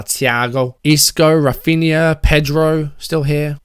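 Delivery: Thiago in a light Scouse accent; a quick, half-hearted Scouse Thiago. Shown as a demonstration. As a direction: say Thiago like a Liverpudlian. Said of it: "you've got to say it in a Scouse accent".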